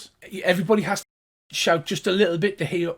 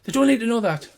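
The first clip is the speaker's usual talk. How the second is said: high, louder gnome snapping; exasperated gnome; 10 semitones higher, 6 dB louder than usual. Acted. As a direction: tell him off. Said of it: "And he goes".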